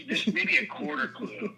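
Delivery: high, slow, laughing self-mockery; laughing joke. Real, not acted. Husband joking about his marriage, laughing. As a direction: chuckle through the punchline.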